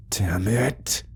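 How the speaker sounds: tense hissed curse, no voice; hissed whisper. Acted. Simon cursing to himself before entering the woods, whispered hiss. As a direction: spit it out under your breath. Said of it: "he hissed".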